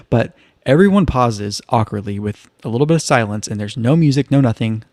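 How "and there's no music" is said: ordinary delivery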